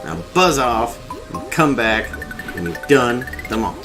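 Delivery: put-on high, cranky old crazy voice; crazy old man voice. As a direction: rant like a mad old ape. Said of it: "See if I can do a crazy voice".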